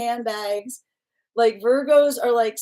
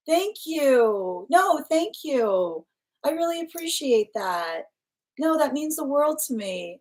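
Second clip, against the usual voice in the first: heartfelt gratitude; 5 semitones higher, slower than usual. Real, not acted. Thanking a viewer for poems.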